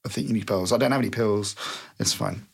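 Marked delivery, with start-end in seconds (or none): 2.0-2.4 very low, gruff and curt; deep voice. Acted. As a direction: drop the voice way down. Sudden low character line.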